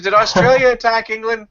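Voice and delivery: put-on high, giggly child question; kid voice. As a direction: ask it dead earnest like a small boy. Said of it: "I said".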